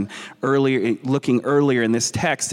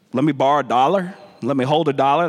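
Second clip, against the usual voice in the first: casual Memphis street ask; faster than usual. Retold or imitated. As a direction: ask a buddy for a dollar Memphis-style. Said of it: "That's how we say it in Memphis".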